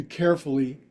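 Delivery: carefully said with deliberate weight; stress on carefully. Shown as a demonstration. Yoga teacher warning students, stressing carefully. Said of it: "I emphasize the word carefully".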